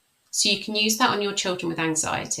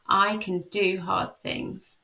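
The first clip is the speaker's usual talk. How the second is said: slow affirmation; slower than usual. Shown as a demonstration. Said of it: "you can say things like".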